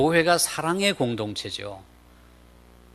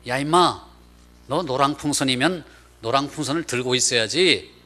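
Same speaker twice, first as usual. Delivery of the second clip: mock telling-off, slightly raised pitch; mildly indignant retold rebuke; retold scolding; 3 semitones higher than usual. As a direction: imitate an old man chewing out a guide. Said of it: "야단을 치더라는 거예요".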